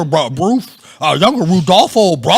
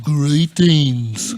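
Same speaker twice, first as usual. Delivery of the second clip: formal greeting; 5 semitones lower than usual. Acted. Wax sculptor greeting.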